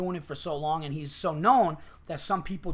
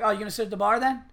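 quick, raised retold question; pointed suggestion; 4 semitones higher, 4 dB louder, much faster than usual. Waitress suggesting the bar to a customer, pointedly. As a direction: imitate a leading question, rattled off a little higher. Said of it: "it was almost like that".

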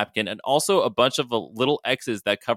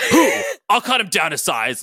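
moderately raised, blustering yell; screamed threat; 9 semitones higher, 5 dB louder than usual. A narrator's reading. Logan threatens an unknown rival, mildly screamed. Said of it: "Logan screamed".

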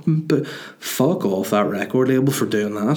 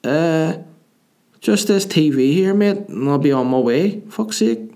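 high put-on voice of an irked ghost; 7 semitones higher than usual. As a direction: play a ghost annoyed at being questioned. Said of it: "And the ghost went".

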